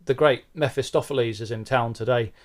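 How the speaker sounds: jolly it up like a chummy GP; breezy doctor. Acted. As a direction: joke doctor brushing it off, loud and cheery. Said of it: "And the doctor goes".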